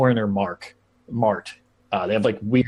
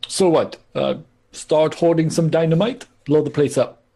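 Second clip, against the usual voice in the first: Krakow; 5 semitones higher, 3 dB louder than usual. Acted. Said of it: "tell Krakow to keep an eye out".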